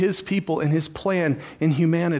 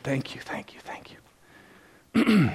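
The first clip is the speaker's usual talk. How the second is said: tearful thanks; 2 semitones higher, much slower than usual. Retold or imitated. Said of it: "She said".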